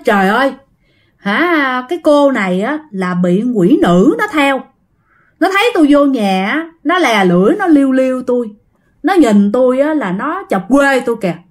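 a touch of alarm, the shaman crying out; exclaiming shaman. Acted. Shaman crying out to the crowd, mild alarm. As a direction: cry out as the startled exorcist. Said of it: "ổng mới la trời liền".

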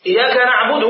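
إياك undoubled, as "iyaka"; ya without doubling. Shown as a demonstration. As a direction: say إياك in إياك نعبد with a single light y. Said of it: "هذا معناه الشمس". (نطق إياك مخففة الياء بلا شدة)

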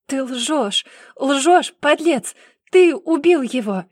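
high, very loud scream. Acted. Sister screaming at her brother, furious shout. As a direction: scream the accusation. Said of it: "кричала девушка".

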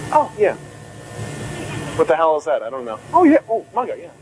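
bluffing nods while clueless; mock knowing. A resident faking knowledge, airy mock nodding. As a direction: pretend you know the term. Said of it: "going like this".

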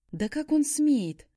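slow, high, loud indignation; furious. A narrator's reading. She fumes alone about Shaun, outraged. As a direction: fume at his nerve. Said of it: "мою ярость".

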